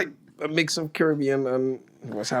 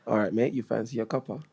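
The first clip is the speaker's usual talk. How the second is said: lightly put-on British accent; British accent attempt. Shown as a demonstration. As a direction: try a matey British accent, repeating the line. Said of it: "say them in your best British accent".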